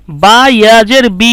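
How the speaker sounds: slow drill, বি held long; lengthened vowel. Shown as a demonstration. Teacher showing a Quran reading drill, final বি stretched long. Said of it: "একটু লম্বা করে পড়েছি".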